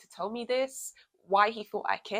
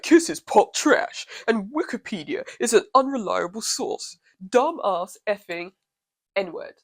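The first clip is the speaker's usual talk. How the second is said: mock troll voice; 4 dB louder than usual. Mock-reading troll's insult.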